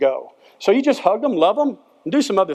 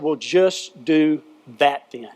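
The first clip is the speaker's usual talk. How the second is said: slow, easy advice; lightly voiced horse giving calm advice; gentle wise horse; 4 semitones lower, slower than usual. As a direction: say it slow, like simple wisdom.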